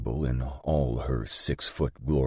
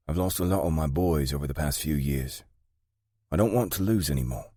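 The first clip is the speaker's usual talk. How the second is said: higher woman's voice, weary of losses; British gang boss, resolute; 4 semitones higher than usual. Acted. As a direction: confide the losses, then firm up with rising pitch.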